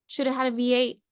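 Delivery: a sudden, slightly forceful jab; mildly aggressive. Real, not acted. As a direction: blurt it a touch too forcefully. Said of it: "that was aggressive".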